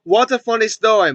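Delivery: imitated stilted movie laugh; Johnny. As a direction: fake laugh leading into the line. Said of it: "he just laughing about all this shit".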